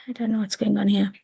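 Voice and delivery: breaking up over a bad line; garbled video call audio; bad connection. Real, not acted. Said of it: "my connection has been really bad".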